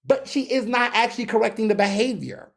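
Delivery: ordinary delivery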